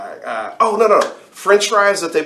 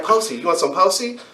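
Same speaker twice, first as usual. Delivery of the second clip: imitating the waitress; 7 semitones higher than usual. Waitress asks again.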